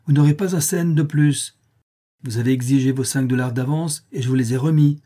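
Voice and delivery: irritated. Acted. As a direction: refuse him flatly, annoyed. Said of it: "d'une voix irritée".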